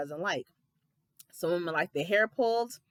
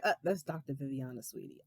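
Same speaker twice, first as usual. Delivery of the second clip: petty put-down; 6 semitones lower, 8 dB quieter than usual. Retold or imitated. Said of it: "I would have said it 'cause I'm petty".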